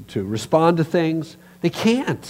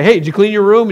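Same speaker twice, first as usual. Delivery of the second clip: nagging parent; 5 semitones higher, 8 dB louder, faster than usual. Retold or imitated. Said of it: "your parents say".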